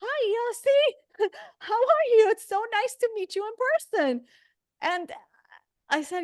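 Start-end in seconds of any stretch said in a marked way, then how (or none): 0.0-4.2 high, slow, laughing "Hi, Yossi"; embarrassed laughing greeting. Retold or imitated. Meeting Yossi at the Ohel looking a wreck, high laughing greeting. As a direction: gush through a flustered laugh at meeting him. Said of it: "And I'm like".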